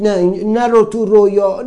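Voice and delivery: loud, high insistent warning; the mind pushing him out of his dream; nagging inner voice. Retold or imitated. The mind forbidding him to dream, loud and urgent. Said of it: "همش میگفت".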